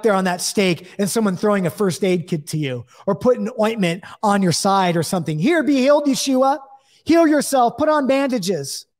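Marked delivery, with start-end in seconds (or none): 5.4-8.9 high, sarcastic taunting; mock bandage offer to the crucified man, sneering and high. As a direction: jeer at him as if offering help. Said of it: "Mocking, making fun of him".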